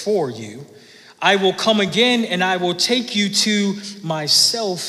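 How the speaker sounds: measured, solemn reading of the Gospel; scripture reading. Acted. Pastor reading scripture to the church, solemn and measured. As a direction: read the verses aloud to the congregation. Reads John chapter fourteen aloud.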